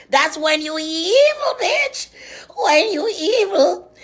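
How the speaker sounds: rising, cracking rant; fiery preaching. Acted. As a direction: preach hellfire at her.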